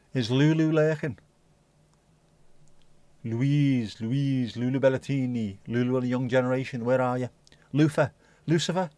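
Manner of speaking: loud sing-song call for someone. Pretend. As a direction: call her name like she's hiding. Calling out for a viewer.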